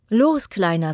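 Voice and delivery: swaying with happiness, call him over; joyful tree voice. Acted. Tree greets the returned boy, joyful and loud.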